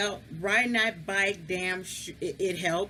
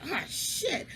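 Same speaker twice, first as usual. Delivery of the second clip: high, laughing mock panic; squeaky high panicked quote with a laugh; retold panic; 5 semitones higher than usual. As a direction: replay your teenage terror half-laughing. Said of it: "So I'm like".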